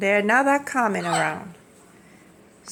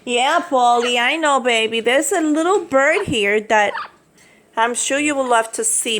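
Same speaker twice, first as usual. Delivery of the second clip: cooing to pet; 3 semitones higher, 4 dB louder than usual. Real, not acted. Cooing to the parrot.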